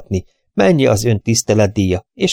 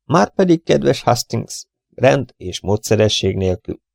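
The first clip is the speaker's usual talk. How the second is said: Poirot's lecture; 3 semitones higher than usual. Acted. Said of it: "sóhajtott Poirot".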